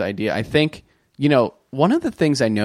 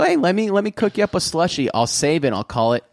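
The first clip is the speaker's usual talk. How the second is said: smooth sixth grader. Retold or imitated. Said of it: "So you go".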